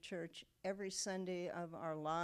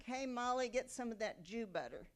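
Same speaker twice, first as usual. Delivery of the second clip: mild mock yell, pitched up; retold yell; 5 semitones higher than usual. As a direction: imitate a storekeeper calling out, without really shouting. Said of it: "would always yell back".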